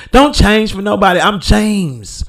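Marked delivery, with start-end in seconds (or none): 0.1-1.2 declared louder as a motto. Shown as a demonstration. Proclaiming a personal motto, louder. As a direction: stamp it down as a personal rule. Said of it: "That's my motto".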